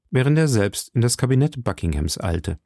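ordinary delivery

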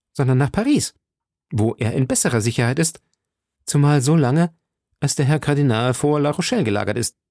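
lightly voiced eager young musketeer, confident; D'Artagnan, confident. D'Artagnan lays out his simple plan to friends, lightly confident.

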